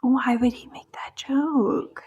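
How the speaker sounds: slow whispered disbelief; whispering. Real, not acted. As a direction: hush it in disbelief. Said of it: "disgusted aside".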